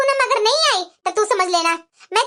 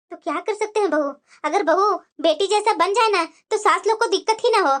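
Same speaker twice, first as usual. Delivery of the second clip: put-on lower, tired old mother-in-law's voice; elderly mother-in-law; 6 semitones lower than usual. Old mother-in-law answering her daughter-in-law, lower and weary.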